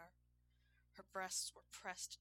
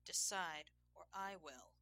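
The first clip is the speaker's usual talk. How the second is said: sharp loud order; stern command; 5 dB louder than usual. Acted. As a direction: snap out the ultimatum. Commanding ultimatum.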